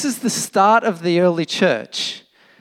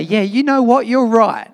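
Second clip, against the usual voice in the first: a touch louder and higher, eager to be agreed with; hoped-for agreement; 5 semitones higher, 5 dB louder than usual. Retold or imitated. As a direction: play the friend who says he's right. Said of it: "I wanted him to say".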